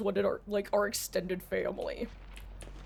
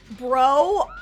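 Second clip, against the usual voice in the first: exclaiming; 5 semitones higher, 9 dB louder than usual. Real, not acted. Reacting to a strange chat message.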